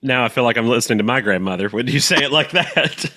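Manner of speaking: laughing. Real, not acted. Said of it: "laughs while talking".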